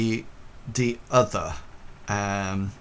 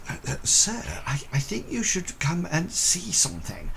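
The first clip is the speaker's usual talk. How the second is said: nervous constable; 8 semitones higher than usual. Acted.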